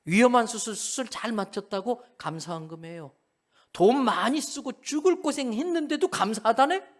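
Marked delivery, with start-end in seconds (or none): 3.7-6.9 higher, put-on voice of wry disbelief; mock-puzzled remark. Preacher teasing the congregation, wry mock surprise. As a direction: wonder aloud, half teasing. Mocks believers' odd thanks.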